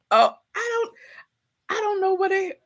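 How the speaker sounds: can barely talk for laughing; laughing hard. Real, not acted. Cracking up at the friends' replies, laughing hard. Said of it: "I'm laughing so hard at you".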